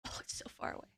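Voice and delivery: breathy whisper of a lazy complaint. Real, not acted. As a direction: whisper it, too lazy to reach. Lazy complaint about the coffee.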